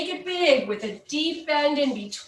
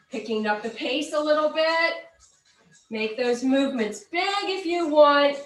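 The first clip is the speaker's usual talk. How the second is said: aerobics instructor. Acted. Cues the Charleston step.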